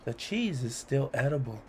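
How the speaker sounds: playful rhythmic read-aloud; poem reading. A narrator's reading. Host reading a cheese poem to children, playful. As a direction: lilt through the rhymes for kids.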